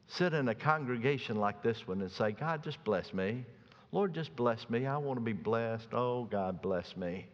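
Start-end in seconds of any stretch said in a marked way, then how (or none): 2.3-7.3 mock half-hearted prayer, trailing softer; passive prayer. Preacher mimics someone passively waiting in the pews, half-hearted. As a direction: pray it idly, letting it sink at the end. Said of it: "ask for a blessing and then wait passively".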